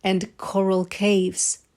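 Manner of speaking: lilting storybook read-aloud; story narration. A narrator's reading. Reading The Snail and the Whale aloud to children, lilting storybook voice. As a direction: tell it like a bedtime picture book. Reads a picture book aloud.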